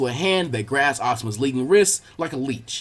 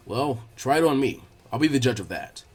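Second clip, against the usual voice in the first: a lower, relaxed sensei voice; Asuma voiced; 4 semitones lower, 3 dB quieter than usual. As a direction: drop lower to play the easygoing teacher.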